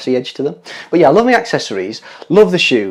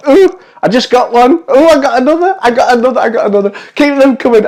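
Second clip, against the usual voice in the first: airy gushing darling tone; 7 semitones higher, 5 dB louder than usual. Pretend. Pretending to catch kisses.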